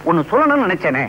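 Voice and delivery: ordinary talk, nothing marked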